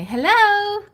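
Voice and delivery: high, loud surprise yell; playful shout. Pretend. Springing out from under his covers, playful shout. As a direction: jump out and shout it. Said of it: "then say".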